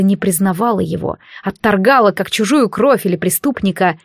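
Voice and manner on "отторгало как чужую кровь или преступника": ordinary delivery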